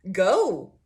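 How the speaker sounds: loud mock comeback; mock defiant outburst. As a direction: call their bluff, loud and daring. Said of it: "You're like".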